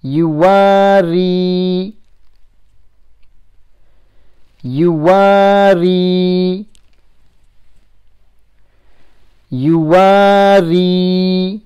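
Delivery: very slow, syllable by syllable. Shown as a demonstration. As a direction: spell it out slowly, one syllable at a time. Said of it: "Next one".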